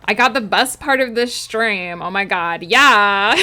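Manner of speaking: put-on swooping valley girl singsong. Streamer playing up a viewer's redeem, valley girl voice. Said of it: "talk like a valley girl for the next five minutes".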